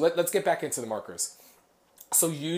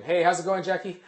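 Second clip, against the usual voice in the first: higher, raised hello; friendly greeting; 6 semitones higher, 4 dB louder than usual. Real, not acted. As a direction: call out a casual greeting to someone joining. Greets someone mid-lesson.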